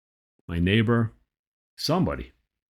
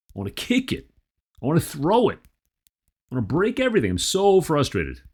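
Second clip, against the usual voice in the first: higher-pitched exasperation; acted frustrated venting; 5 semitones higher than usual. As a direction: vent the urge to lash out, pitch swooping up. Venting urge to break things.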